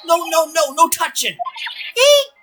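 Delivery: high, loud, frantic protest ending in a squeal; panicked warning. Acted. Startled character saying no touching, panicked. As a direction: cry out in alarm to stop them.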